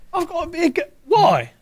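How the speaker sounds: put-on high, girly voice; girl voice. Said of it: "you gotta bring the girl out".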